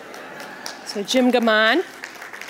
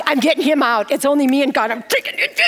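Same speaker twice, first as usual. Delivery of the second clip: mock frantic grab; 2 semitones higher, faster than usual. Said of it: "I'm like".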